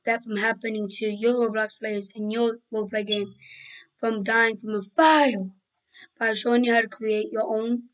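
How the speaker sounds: losing voice, rough and hoarse; strained hoarse voice after screaming. Real, not acted. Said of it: "Sorry, I'm losing my voice".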